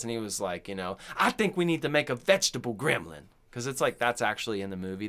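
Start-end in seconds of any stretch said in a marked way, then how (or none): 1.2-3.2 lightly voiced eccentric idea man; Star Jackson Junior. Eccentric guy pitching a gremlin to the writers, mildly flamboyant. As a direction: pitch it with a touch of showy eccentricity. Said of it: "they just had some eccentric guy in there".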